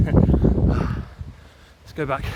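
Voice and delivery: laughing and breathless; winded chuckle through the words. Real, not acted. Laughing, winded after run.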